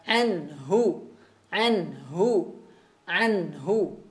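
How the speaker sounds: anhu with a clear h from the base of the throat; tajwid demo. Shown as a demonstration. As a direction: push the h of anhu from deep in the throat. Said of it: "pangkal tenggorokan ini berarti harus jelas". (anhu, H jelas dari pangkal tenggorokan)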